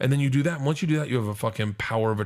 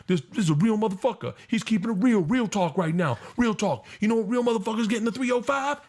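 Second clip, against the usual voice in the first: much higher, rowdy hype-man yell; hyped-up stage crasher; 11 semitones higher than usual. Retold or imitated. Man on stage hyping up the comedy crowd, rowdy high yell. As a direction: pump up the crowd like a show-off.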